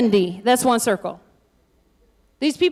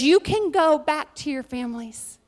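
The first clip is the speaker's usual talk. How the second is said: weary, defeated mother-in-law; 6 dB quieter than usual. Retold or imitated. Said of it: "looks at her daughter-in-laws and says".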